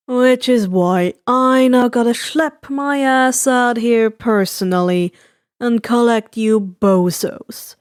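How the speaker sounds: lightly voiced weary broker, slowing at the end; tired voice. Giran arriving to fetch the League, a touch tired. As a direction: drag it out like you're sick of all of them. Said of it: "A tired voice came".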